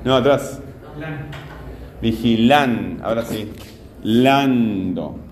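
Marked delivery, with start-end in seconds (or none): 2.0-3.0 "Vigilan" lower, held on LAN; teacher isolating LAN as the strong part of "Vigilan"; stressed syllable demo. Shown as a demonstration. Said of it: "Esta es la sílaba tónica". 4.0-5.2 "Lando" lower, LAN drawn out; teacher sounding out the strong LAN of "Lando"; isolated stressed syllable. Shown as a demonstration. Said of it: "Esta es la sílaba tónica".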